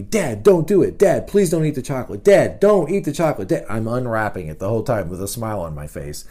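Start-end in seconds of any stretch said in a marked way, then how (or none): 0.0-3.6 a touch of a pleading daughter; lightly voiced begging girl. Dad voicing his daughter begging him not to eat chocolate, pleading. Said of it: "comes running right up to me".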